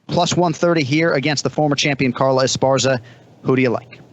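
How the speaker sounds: odds read in a Boston accent; Boston accent, announcer style. Real, not acted. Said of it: "so much better when you do it with your Boston accent".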